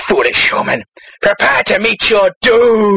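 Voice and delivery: low, doom-laden demon voice; menacing demon. Acted. Demon threatens the Irishman, low menace. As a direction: drop low and draw out the threat. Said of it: "The demon sees him and one says".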